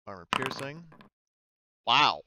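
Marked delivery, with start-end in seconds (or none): 1.8-2.2 surprised wow. Real, not acted. Surprising dice roll result.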